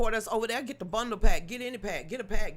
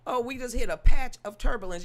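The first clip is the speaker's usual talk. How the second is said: mock pilot; 7 dB louder than usual. Mocking the pilot announcement.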